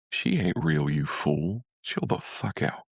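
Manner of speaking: a hint of a scolding big brother in his head; big brother's voice. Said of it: "This is the voice of Michael".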